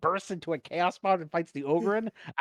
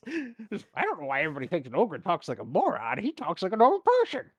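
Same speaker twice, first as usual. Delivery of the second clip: damaged-brain Leroy. Acted. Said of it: "Leroy's damaged brain, it just sounds like".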